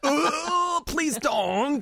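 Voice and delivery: high, cutesy plea. Retold or imitated. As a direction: plead in a cutesy way.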